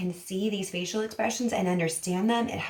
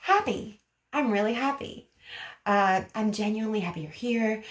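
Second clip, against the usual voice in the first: toned-down happy. Shown as a demonstration. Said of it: "So let's take this down".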